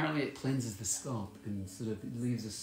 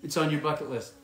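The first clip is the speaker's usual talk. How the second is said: excited; 4 semitones higher, 5 dB louder than usual. Shown as a demonstration. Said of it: "That's what she means".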